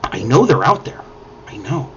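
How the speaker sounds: soft, hushed murmur to the toad; hushed whisper to a frog. Acted. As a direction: mage soothing the toad on her knee, hushed. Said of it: "very quietly whispering to this frog".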